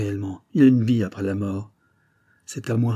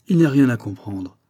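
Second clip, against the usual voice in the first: said loudly; 5 dB louder than usual. Retold or imitated. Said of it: "affirme à haute voix".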